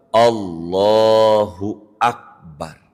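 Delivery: Allahu Akbar drawn out slowly; takbir example. Shown as a demonstration. Teacher reciting the takbir example. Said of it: "Nggak boleh".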